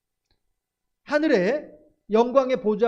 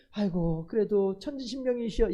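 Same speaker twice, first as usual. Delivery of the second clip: put-on pleading old-fashioned prayer; 3 dB quieter than usual. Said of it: "옛날 어른들 말이죠".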